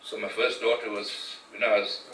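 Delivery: hushed, emotional, close to tears; real grief, voice falling quiet; getting emotional. Real, not acted. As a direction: softly overcome remembering his dying mother. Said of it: "sorry, I'm getting emotional here".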